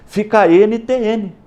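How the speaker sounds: "N T N" said as three separate letter names; name each letter slowly and apart; letters spelled out. Shown as a demonstration. Teacher spelling the consonants of a name for students. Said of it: "que são só as consoantes".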